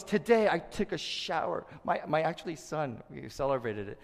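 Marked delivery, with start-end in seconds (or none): 0.0-1.7 mock brag. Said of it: "anyone goes".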